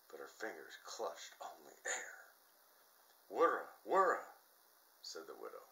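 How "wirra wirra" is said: high, loud keening wail; loud wailing moan. A narrator's reading. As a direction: wail it out in grief. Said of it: "She moaned so long and so loud".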